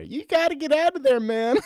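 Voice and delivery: high, loud mock Joe Rogan shout; Joe Rogan impression. Joe Rogan warning South Africans, high mock yell. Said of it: "Joe Rogan telling South Africans".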